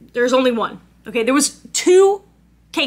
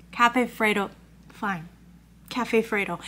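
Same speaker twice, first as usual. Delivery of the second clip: curt interruption; 3 semitones lower, 6 dB quieter than usual. Retold or imitated. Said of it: "I interrupted and I was like".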